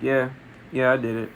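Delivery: soft, low, sheepish confession; mildly embarrassed mumble; bashful admission. Acted. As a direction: own up quietly, as if shy. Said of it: "bashfully looks down like".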